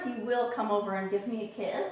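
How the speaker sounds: usual speaking voice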